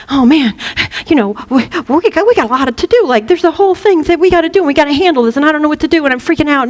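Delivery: lightly hammed-up overwhelmed worrier; worried thought. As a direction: rattle off worries in a mild panic. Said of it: "a worrisome thought will come up and be like".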